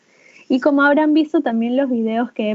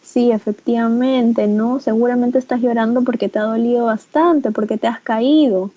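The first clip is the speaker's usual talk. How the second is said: validating parent. Shown as a demonstration. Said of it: "yo le voy a decir".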